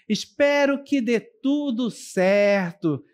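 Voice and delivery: "espero que dê tudo certo" said slowly as a sincere wish; heartfelt wish, slowly. Shown as a demonstration. Teacher slowly showing a wish for someone, sincerely. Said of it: "expressando um desejo".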